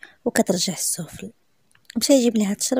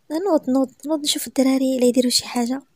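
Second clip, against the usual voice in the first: flustered and higher, hurrying him off; a nervous push to get up; mild flustered urging; 4 semitones higher than usual. Acted. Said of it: "بدات كتسمسم".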